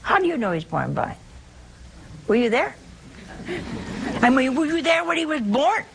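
mock-interrogate like a doubter; lightly voiced doubting apostle; doubting Thomas. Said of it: "And Thomas says".

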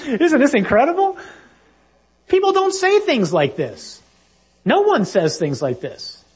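high, laughing amazement; laughing disbelief. Real, not acted. Preacher laughing at his own example, amazed.

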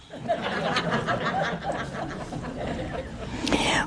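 a long hearty laugh at her own joke. Real, not acted. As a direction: let the laugh roll out.

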